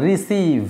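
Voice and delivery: রিসিভ with a long "ee" in the last syllable. Shown as a demonstration. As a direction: draw out the second vowel of রিসিভ as "ee". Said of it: "long ই হবে".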